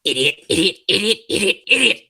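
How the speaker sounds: building self-scolding. Acted. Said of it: "my idiot mantra".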